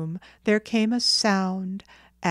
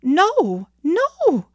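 high, loud, alarmed mother; dismayed protest, pitched up; pleading refusal; 9 semitones higher, 7 dB louder than usual. Acted. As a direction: beg the boy to stop. Mother begging whistle to stop.

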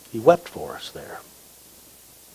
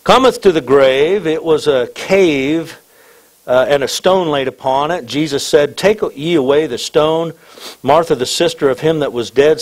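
raised, declaimed Bible reading; scripture reading; 4 semitones higher, 4 dB louder than usual. Acted. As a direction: read the passage out to the whole church. Reads scripture to congregation.

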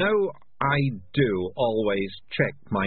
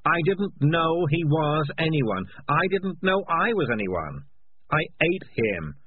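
agitated confession; 7 semitones higher than usual. Acted. Morris confesses to the rats he ate their friend, agitated and defensive. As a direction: blurt out the guilt, then push back.

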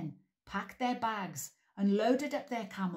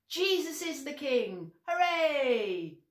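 high loud joyful cheer; 8 semitones higher, 5 dB louder than usual. Shown as a demonstration. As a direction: cheer it out as loud as you can. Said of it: "we say very loudly".

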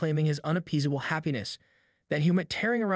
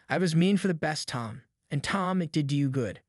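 gently. Acted. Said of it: "said gently".

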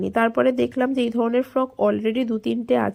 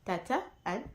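speaking softly; 3 semitones lower, 16 dB quieter than usual. Real, not acted. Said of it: "আস্তে আস্তেই কথা বলছি". (আস্তে আস্তে নিচু গলায়)

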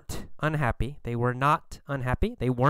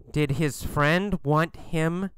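ordinary delivery

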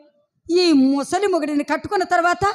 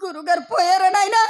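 fuller, raised lamenting cry; stage wailing. Acted. Wife crying to servant over husband's death, raised wail. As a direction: wail the question out. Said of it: "ఎందుకండి ఏడుస్తున్నారు".

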